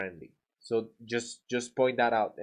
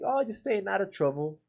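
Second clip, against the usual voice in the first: playful odd reply; 5 semitones higher than usual. Shown as a demonstration. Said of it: "saying something odd".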